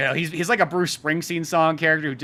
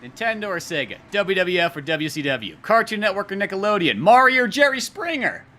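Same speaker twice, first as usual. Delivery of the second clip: building explanation; 5 semitones higher, 4 dB louder than usual. Retold or imitated. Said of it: "Cisco's just trying to explain".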